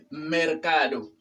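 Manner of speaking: "mercado" with a clear R before the c; "mercado" with R, not L; correct R. Shown as a demonstration. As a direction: say "mercado" as mer-CA-do. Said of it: "con R".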